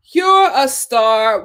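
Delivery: very slow, each word stretched; slow emphatic repeat. Shown as a demonstration. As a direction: drag it out to make it count. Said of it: "Candace, you're a star".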